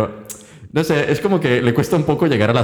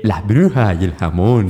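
slow mock Southern Californian Spanish; exaggerated gringo-accented Spanish; American accent; 2 semitones lower, slower than usual. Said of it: "muy americano".

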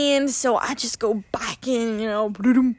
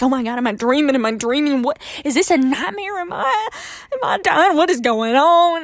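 retold panic; 2 semitones higher, 4 dB louder than usual. Panicked self-talk during tornado.

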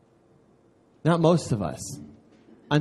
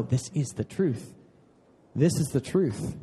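solid conviction; 2 semitones lower, 3 dB quieter than usual. Acted. Preacher answering the doubter about the truth, firmly convinced. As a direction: state it firmly without raising the voice. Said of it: "that's solid in you".

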